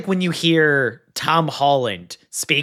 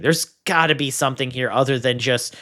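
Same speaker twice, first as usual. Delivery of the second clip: baffled inner voice; faster than usual. Retold or imitated. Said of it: "I was like".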